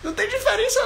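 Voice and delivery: normal talking voice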